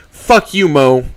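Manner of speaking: loud, high furious snap; angry curse. Acted. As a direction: cut him off with contempt. Trish hangs up angrily.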